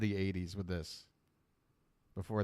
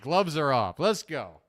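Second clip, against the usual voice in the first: loud, punchy pre-fight hype; pumped-up hype; 6 dB louder than usual. Acted. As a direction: pump yourself up for a fight. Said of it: "I can get into that Ken mode".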